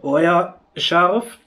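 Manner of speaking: gasping through the burning chili heat; strained, mouth on fire from spice; mouth burning from spicy food. Real, not acted. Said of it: "Zu scharf".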